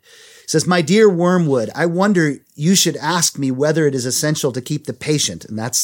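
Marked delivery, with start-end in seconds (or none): 0.7-5.5 emphatic letter reading; reading a letter aloud. A narrator's reading. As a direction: read the letter out to listeners. Reads Satan's letter aloud.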